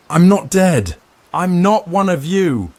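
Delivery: desperate full-throated yell; shouting. A narrator's reading. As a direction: scream it through the steel door.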